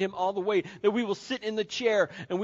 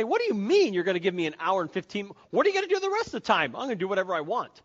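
indignant spouse; 3 dB louder, faster than usual. Acted. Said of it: "they're gonna say".

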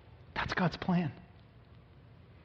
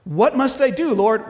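earnest plea; 8 semitones higher, 7 dB louder than usual. Acted. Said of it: "Paul's second question".

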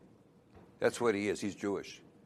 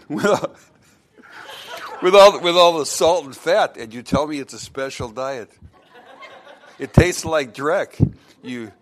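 the complaining dog; 4 dB louder than usual. Acted. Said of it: "turns around and says".

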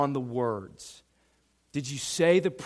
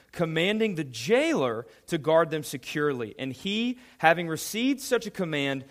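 reading the verse aloud, a bit raised; scripture reading. Acted. Pastor reads Acts to the youth, a little raised. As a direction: lift the Bible text above the talk.

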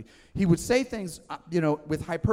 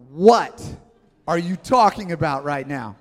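loud shocked What; incredulous outburst; 8 dB louder than usual. Retold or imitated. Crowd reacting to Jesus's words, loud shocked outburst. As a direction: blurt it out in disbelief. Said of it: "And they're going".

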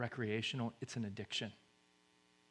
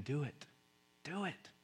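very soft nudge; hushed urging; 8 dB quieter than usual. Acted. God quietly urges others of you to act, hushed. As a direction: urge it quietly, close to the ear. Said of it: "He's whispering".

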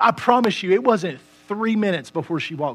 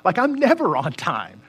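contrite prayer; 5 semitones lower than usual. Retold or imitated. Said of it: "I said".

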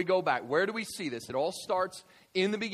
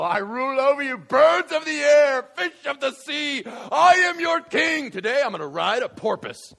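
roaring tyrant king; 10 semitones higher, 13 dB louder than usual. Acted. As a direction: proclaim yourself king of everything. Adam proclaiming kingship.

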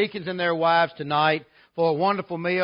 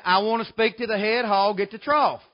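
imitated caller, a touch more forceful; insistent repeated request. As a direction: lightly voice a caller repeating himself firmly. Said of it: "He said it again".

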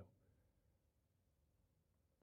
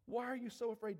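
firmer, raised challenge; insistent question; 3 semitones higher than usual. Acted. Jesus pressing the frightened disciples, insistently.

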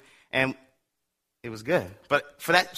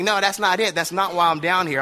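indignant protest; 5 semitones higher, 4 dB louder than usual. Retold or imitated. Boy protesting brother's accusation.

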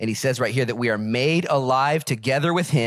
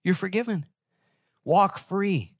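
higher, fervent preacher voice lifting the verse; preaching at full force; 10 semitones higher than usual. Acted. Pastor to his congregation, fervent full-force preaching. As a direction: preach it out to the whole church.

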